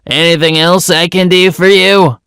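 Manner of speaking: high, put-on voice of feigned helpfulness; straight-faced uncle. Short-tempered uncle to the building's owner, straight-faced. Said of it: "with a completely straight face".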